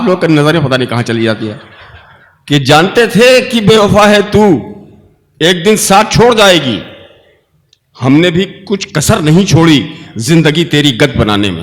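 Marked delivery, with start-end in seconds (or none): 2.5-11.6 measured, rising recital of a couplet; poetry recitation. Acted. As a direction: recite it like a mushaira poet.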